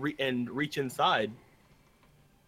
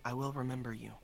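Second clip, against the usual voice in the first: Stonewalker voice; 2 semitones lower, 8 dB quieter than usual. Acted. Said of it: "in Stonewalker voice".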